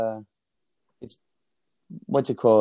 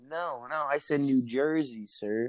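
mock Jersey accent. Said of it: "the Jersey accent".

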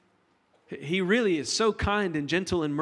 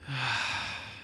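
demo long sigh; 4 semitones lower, 6 dB quieter than usual. Shown as a demonstration. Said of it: "to have big nostrils".

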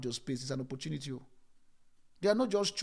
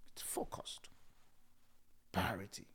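much softer, whispered; 8 semitones lower, 12 dB quieter than usual. Acted. Preacher whispers the key word to the listeners. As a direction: hush the word down.

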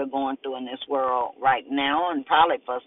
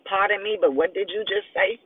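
higher, puzzled questioning; confused demand; 6 semitones higher than usual. Acted. Male officer puzzled by her claim, higher confused demand. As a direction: ask as if he misheard. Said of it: "he demanded confusedly".

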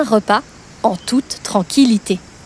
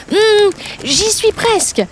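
slow, higher, strained voice while pulling hard; straining effort; 7 semitones higher than usual. Acted. Bird tugging the stuck meat from the tooth, straining. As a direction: grunt it out mid-pull.

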